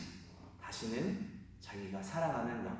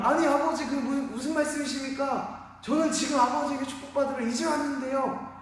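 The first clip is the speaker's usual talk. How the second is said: much higher, louder, near-wailing disbelief; shocked son; 11 dB louder than usual. Acted. Esau learning his blessing is gone, rising shocked outcry. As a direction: rise into an anguished outcry. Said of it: "에서가 깜짝 놀란 거예요".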